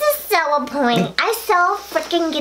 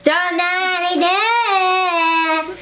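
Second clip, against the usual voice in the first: yelling; 3 semitones higher, slower than usual. Real, not acted. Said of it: "I should yell".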